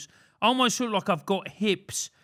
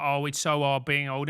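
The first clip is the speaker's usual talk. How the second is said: low, mildly mocking grumble; 6 semitones lower than usual.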